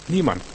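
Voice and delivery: Niemand set apart with a falling tone; stress on Niemand. Shown as a demonstration. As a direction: say Niemand alone, firmly stressed on the first syllable. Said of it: "die Betonung liegt auf niemand".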